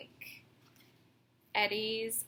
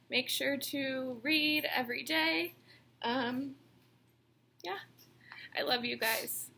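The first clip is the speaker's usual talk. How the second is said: putting on a brave face; 3 semitones higher than usual. Real, not acted. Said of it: "I'm trying not to cry".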